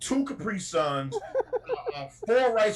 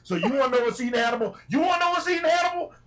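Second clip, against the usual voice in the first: fast, rising into a high shout; building catchphrase shout; 8 semitones higher, 4 dB louder, faster than usual. Acted. Host shouting show catchphrase to viewers, building to a yell.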